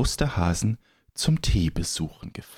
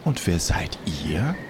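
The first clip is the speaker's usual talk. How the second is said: friendly creature; 2 semitones higher than usual. Acted. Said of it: "So freundlich sah das Gesicht aus".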